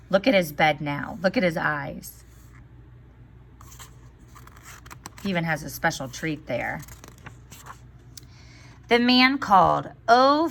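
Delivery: put-on lively storybook reading for children; story read aloud. A narrator's reading. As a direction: read the tale to the class, voicing each character. Teacher reads fairy tale aloud.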